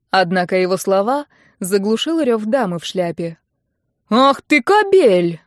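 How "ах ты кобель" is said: loud, higher, very slow furious yell. A narrator's reading. Mother-in-law yells at the groom, loud slow furious. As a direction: roar the insult at him. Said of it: "заорала она уже Ипполиту".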